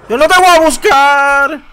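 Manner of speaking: desafiante y fuerte; lánzale el reto a gritos al monstruo; burla gritada. Pretend. (le grita al monstruo del juego, desafiante)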